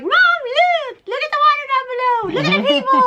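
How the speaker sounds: put-on excited kids. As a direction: kids thrilled at the view below. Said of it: "And the kids are all like".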